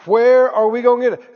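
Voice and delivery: mimicking a fretful doubter; lightly voiced anxious worrier; worried unbeliever. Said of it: "That's how unbelief talks".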